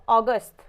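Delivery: अगस्त repeated as 'aw-gust' with a rounded o; अगस्त said slowly as 'ɔ-gust'; correct pronunciation. Shown as a demonstration. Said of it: "सही pronunciation क्या होगा".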